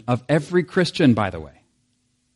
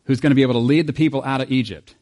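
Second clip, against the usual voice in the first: mock committee voice; 2 semitones higher, 3 dB louder than usual. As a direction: play a clueless recruiter floating a bad idea. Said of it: "you're like".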